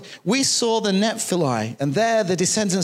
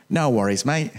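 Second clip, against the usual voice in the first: mock Australian "No worries, mate"; Australian accent; 6 semitones lower than usual. Shown as a demonstration. Preacher showing off his Australian accent to the congregation. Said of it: "That's, that's my Australian accent".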